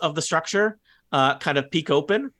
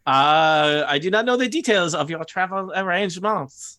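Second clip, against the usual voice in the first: put-on higher-pitched, careful goblin accent; Saith, goblin accent; 4 semitones higher than usual. Saith telling the traveller what he doesn't know, goblin accent. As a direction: answer formally in a light goblin accent.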